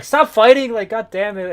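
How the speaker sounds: mock shout. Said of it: "Romeo's like".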